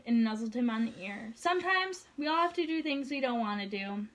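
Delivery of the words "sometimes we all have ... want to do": gentle. Acted. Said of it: "she told him gently".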